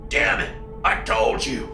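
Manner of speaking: half-voiced, raw father's plea; raw with emotion. A father pleads with his son, voice raw. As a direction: choke it out, barely voiced. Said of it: "voice raw with emotion".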